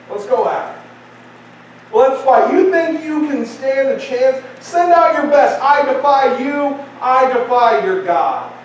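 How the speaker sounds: preacher acting a warrior's taunt; defiant Goliath. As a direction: dare them to send a champion. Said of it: "these are the words of the mighty Goliath".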